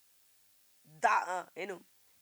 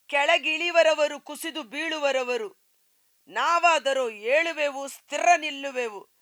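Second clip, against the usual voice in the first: loud proclamation; 3 semitones higher, 6 dB louder than usual. Real, not acted. Preacher proclaiming victory.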